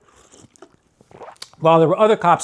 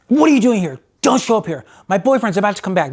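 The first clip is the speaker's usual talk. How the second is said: higher and louder, telling him off; retold angry woman; 4 semitones higher, 3 dB louder than usual. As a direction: snap at him to get out before her boyfriend returns. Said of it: "She was totally pissed at me".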